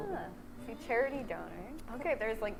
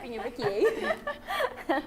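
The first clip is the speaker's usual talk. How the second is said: mock Canadian accent; 5 semitones higher, 7 dB louder, much slower than usual. Echoing the Canadian phrase, laughing.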